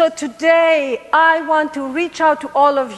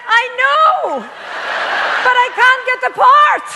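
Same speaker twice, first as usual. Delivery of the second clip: retold outcry; 8 semitones higher, 4 dB louder than usual. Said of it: "what do you think this woman says to me?".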